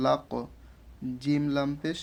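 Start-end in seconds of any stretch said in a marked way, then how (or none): 0.1-0.3 "লাক" with the final q released in a bounce; "লাক" ending in a short q bounce; qalqalah. Shown as a demonstration. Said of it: "কলকলা পরে পড়বো".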